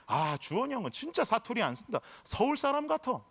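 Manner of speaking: lightly imitated Daegu accent; Gyeongsang dialect. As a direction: quote a friend in a mild Gyeongsang lilt. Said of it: "엄청 진하게 사투리를 쓰던 사람". (가볍게 흉내 낸 경상도 사투리)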